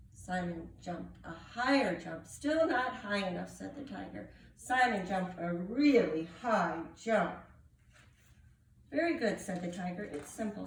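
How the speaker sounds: animated picture-book reading with character voices; story narration. Acted. Reader telling children of Simon and the tiger, animated story narration. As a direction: read aloud with swooping, expressive pitch.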